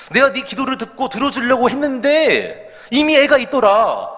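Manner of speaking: can't hold back laughter while telling it; laughing through punchline. Retold or imitated. Preacher delivering God's joke to congregation, laughing high.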